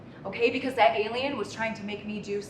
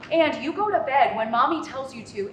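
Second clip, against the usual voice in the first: fake patience; 5 dB louder than usual. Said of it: "kind, patient voice that I do".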